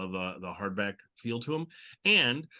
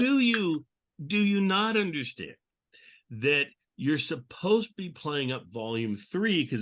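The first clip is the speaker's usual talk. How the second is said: higher, louder, teasing exasperation; mock scolding; 5 semitones higher, 3 dB louder than usual. Host teasing his guest for plugging the wrong volume, mock indignant. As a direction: playfully chide like a put-upon boss.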